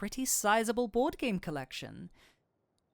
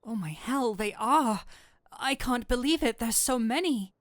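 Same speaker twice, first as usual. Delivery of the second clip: louder, higher delighted squeal; a demon fangirling, louder and higher; excited gush; 4 semitones higher, 4 dB louder than usual. Acted. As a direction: break character over the books. Spots the D&D books.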